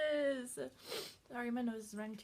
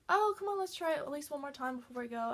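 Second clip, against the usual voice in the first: coaxing plea; 2 semitones higher, faster than usual. Retold or imitated. Lily coaxing one more try.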